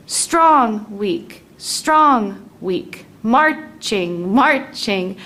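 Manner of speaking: steady left-right chant; marching rhythm. Shown as a demonstration. Teacher chanting the meter like a march. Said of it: "this meter trochaic".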